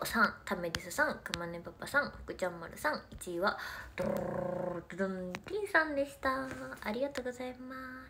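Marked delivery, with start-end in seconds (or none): 4.0-4.3 low rolled drumroll; very low rolled drumroll before the winner; mouth drumroll. Acted. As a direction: roll the r like a drum. Drumroll before first place.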